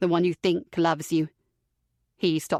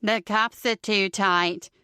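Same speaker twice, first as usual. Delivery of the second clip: slow, whining mimicry; whiny mocking voice; 3 semitones higher, slower than usual. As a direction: drag it out like a whining child. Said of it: "He then mimics me in a whiny voice".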